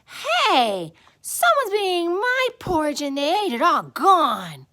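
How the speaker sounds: high, loud little-bear wail; Baby Bear. A narrator's reading. Baby Bear finding his porridge all gone, high wailing. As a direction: wail it like an upset child. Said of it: "Baby Bear looked at his".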